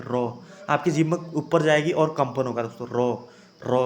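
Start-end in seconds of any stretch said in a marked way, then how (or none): 0.0-0.3 रॉ with the tongue trilling three or four times; rolled र. Shown as a demonstration. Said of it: "अब आप खुद रॉ बोल के देखिए". 2.9-3.8 रॉ with the tongue trilling three or four times; rolled र. Shown as a demonstration. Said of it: "तीन चार बार जीभ हिलेगी".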